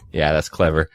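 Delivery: dry sarcastic "clever", fake praise. Shown as a demonstration. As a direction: say "clever" like you mean the opposite. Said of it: "I'm being sarcastic".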